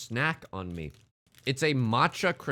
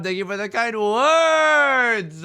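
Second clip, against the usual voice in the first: drawn-out thanks; 8 semitones higher, 8 dB louder, much slower than usual. Acted.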